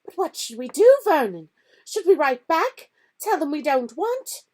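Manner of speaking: high, loud fretful pleading; aunt asking what to do; anxious. A narrator's reading. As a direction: plead nervously. Aunt worrying.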